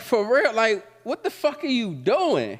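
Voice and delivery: high loud shout, slowing down; exasperated yell. Retold or imitated. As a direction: yell at your mother in disbelief. Confronting his mother outside.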